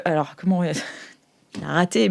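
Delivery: ordinary talk, nothing marked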